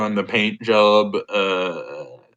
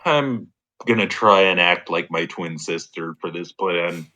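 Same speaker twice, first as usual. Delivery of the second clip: pinched nose; 3 semitones lower, 3 dB quieter than usual. Pretend. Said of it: "I'm gonna pinch my nose and say".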